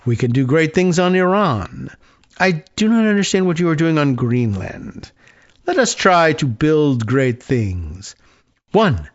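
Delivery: put-on lightly hinted French accent; Emmanuel Macron. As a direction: read the message with a touch of French accent. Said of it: "trying to do a French accent".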